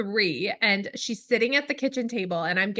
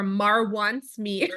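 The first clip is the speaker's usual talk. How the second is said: put-on 1 Sesame Street toddler; much slower than usual. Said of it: "so she would go".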